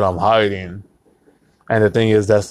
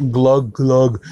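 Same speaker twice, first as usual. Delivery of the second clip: gulping; 2 semitones higher than usual. Shown as a demonstration.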